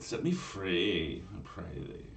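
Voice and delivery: slow, fading mermaid plea; Valley Girl plea. Acted. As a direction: stretch it out lazily. Mermaid pleads, slowly.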